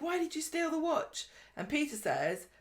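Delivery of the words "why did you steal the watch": mock accusing Lou. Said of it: "she's like".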